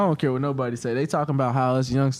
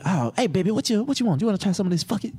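smooth hustler voice; 6 semitones higher than usual. Pretend. Playing a hippie dealer offering drugs.

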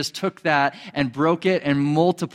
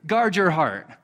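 a lightly raised, earnest voice of God; voicing God; 5 semitones higher than usual. Preacher voicing God telling believers to guard their hearts. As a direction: speak as a caring father giving a charge. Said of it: "he's saying".

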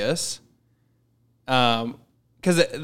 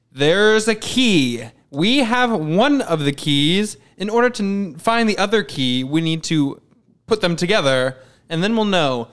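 mock movie exposition; 4 semitones higher than usual. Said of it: "They literally said that".

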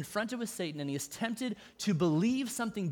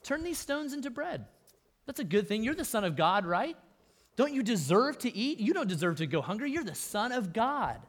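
sly coaxing; 4 semitones higher than usual. Retold or imitated. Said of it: "He just says".

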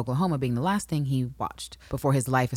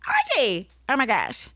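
shrieking the name high and loud; excited high call; 11 semitones higher, 4 dB louder than usual. Retold or imitated. Lori spots Archie, calling his name in high delight.

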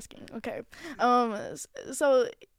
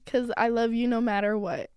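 sarcastic affection; 2 semitones lower than usual. Real, not acted. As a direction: say it lovingly without quite meaning it. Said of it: "why did you say that so sarcastically?".

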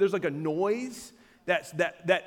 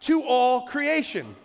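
slow emphatic reading; 3 semitones higher than usual. Shown as a demonstration. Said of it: "you could say it this way".

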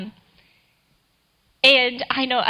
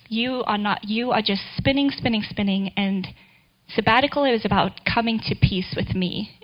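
gentle. Retold or imitated. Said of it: "very gently".

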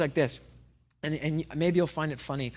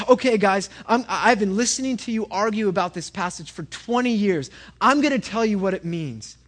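lightly acted exasperation, louder and a bit higher; annoyed God; 3 semitones higher, 5 dB louder than usual. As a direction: step in loudly like a fed-up God. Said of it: "gets just annoyed".

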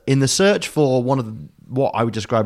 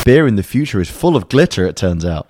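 clickbait video narrator; 7 dB louder than usual. Pretend. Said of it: "the other one would say something awful like".

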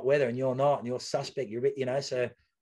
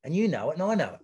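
bravado; 3 semitones higher than usual. Retold or imitated. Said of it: "I was just saying that in bravado".

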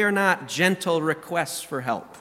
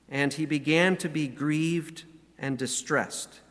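scripture reading. Acted. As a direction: read the passage with reverent weight. Reads Gethsemane scripture aloud.

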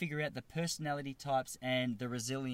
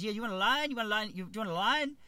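put-on high, insistent Asian-accented question; badly faked Asian accent, pitched up; mock Asian accent; 6 semitones higher, 5 dB louder, faster than usual. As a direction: imitate the hairdresser repeating himself, Asian accent. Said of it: "do the Asian accent".

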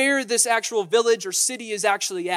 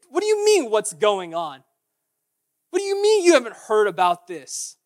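incredulous; 5 dB louder than usual. Acted. Disciples retort to Jesus.

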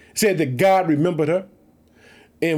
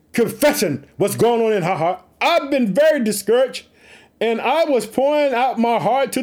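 Hannah's reply; 5 semitones higher than usual. Acted. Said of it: "she replied".

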